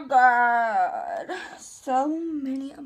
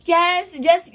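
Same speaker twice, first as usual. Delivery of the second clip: excited exclamation; 4 semitones higher, 7 dB louder than usual. Pretend. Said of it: "be like".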